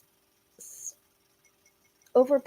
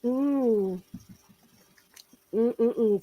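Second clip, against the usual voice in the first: coffee slurping hum. Real, not acted. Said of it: "I slurp it".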